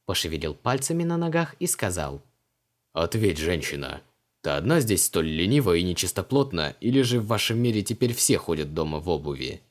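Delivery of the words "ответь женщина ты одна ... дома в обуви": Creole's voice. A narrator's reading. Ancient mage scolds Vanessa about shoes, haughty. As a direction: scold her like an offended old sorcerer.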